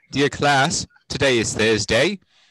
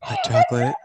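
squeaky, very high eerie voice; creepy falsetto squeak. Pretend. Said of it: "Okay, creepy voice, all done".

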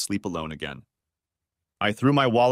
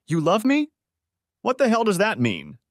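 furious; 11 semitones higher than usual. A narrator's reading. Husband answering wife's plea, furious. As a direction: spit it out in disbelief and rage. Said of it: "Furious, I said".

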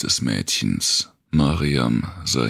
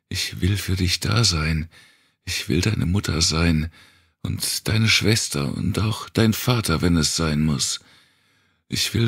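higher, pressing vow; impassioned plea; 4 semitones higher than usual. Acted. Wanda vows to the girl she'll burn the world. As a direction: pour out every promise urgently.

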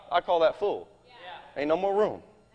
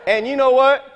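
laughing; 3 semitones higher than usual. Real, not acted. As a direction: admit it with a laugh in your voice. Joking correction, laughing.

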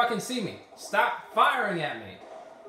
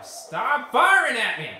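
slow, loud yell at the enemies; angry yell; 2 semitones higher, 5 dB louder, slower than usual. Real, not acted. Gamer yelling at enemies firing on him, angry yell. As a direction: shout them down in frustration.

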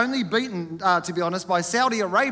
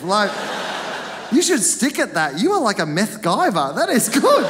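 amazed praise; 3 semitones higher, 4 dB louder than usual. Retold or imitated. Imagined admiring remark to attacker.

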